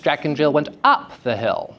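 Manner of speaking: "up" jumps up in pitch; pitch stress on up. Shown as a demonstration. Teacher demonstrating stress by inflection, pitch change on "up". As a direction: lift the pitch sharply on "up". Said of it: "change in pitch".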